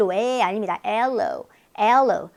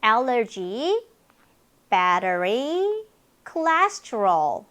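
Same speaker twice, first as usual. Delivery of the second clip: "Allergy", "battery", "cholesterol" stretched out syllable by syllable; very slow demo; much slower than usual. Shown as a demonstration. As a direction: drill each word very slowly. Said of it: "cholesterol 이렇게 발음이 됩니다".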